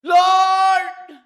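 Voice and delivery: mataas at malakas na "Lord!"; sigaw. Retold or imitated. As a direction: sumigaw nang mataas, buong lakas. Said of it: "Sumigaw po ako ng ganun". (malakas na sigaw ng "Lord!")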